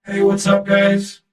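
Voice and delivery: robotic voice. Pretend. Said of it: "Sounds like that song by a singer".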